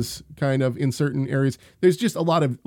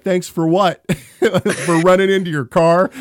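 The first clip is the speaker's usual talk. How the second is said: confused neighbor; 5 semitones higher, 7 dB louder than usual. Retold or imitated. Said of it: "And he was like".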